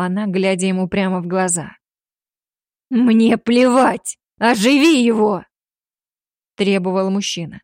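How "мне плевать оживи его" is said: loud, slow, higher desperate shout; desperate demand. A narrator's reading. Father begging her to revive his son, desperate shout. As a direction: demand it, voice strained by despair. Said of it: "Его голос дрожал от отчаяния".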